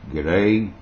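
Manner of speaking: broad Australian g'day; Australian accent. Shown as a demonstration. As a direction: say it in an Aussie accent. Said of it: "they can't get g'day".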